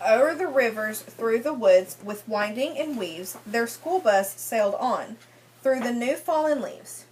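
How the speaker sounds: sing-song read-aloud rhyme for a class; lilting picture-book reading voice; story reading to children. Acted. Teacher reads rhyming picture book.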